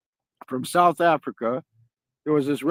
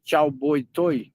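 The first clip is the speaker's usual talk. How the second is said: put-on "Chow boy toy" said slowly, stretched out; slow demo pronunciation; slower than usual. Shown as a demonstration. Teaching a friend the evening greeting, slow and careful. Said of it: "So you say".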